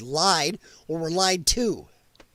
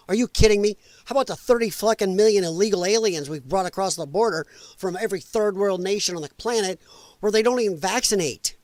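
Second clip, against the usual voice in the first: retold loud rant. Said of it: "I got a little loud".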